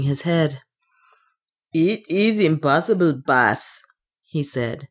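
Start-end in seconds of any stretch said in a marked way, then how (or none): 1.7-3.8 a hint of accented dwarf, reporting bad news; lightly voiced dwarf servant. The dwarf reports to his master, lightly accented character voice.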